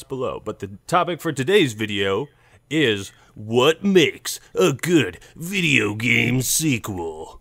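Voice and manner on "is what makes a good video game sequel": slow, heavy trailer voice; over-dramatic intro. Pretend. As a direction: drag it out like a trailer. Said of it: "over-dramatized intro".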